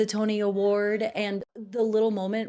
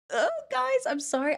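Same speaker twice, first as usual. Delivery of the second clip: dismayed oh. Real, not acted. Dismayed outburst to viewers.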